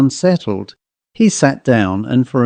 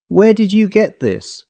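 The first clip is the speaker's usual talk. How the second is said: higher, amazed father; stunned question; 8 semitones higher than usual. A narrator's reading. Father stunned by the sketch, higher amazed question. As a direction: force out the question in shock. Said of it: "managed to articulate".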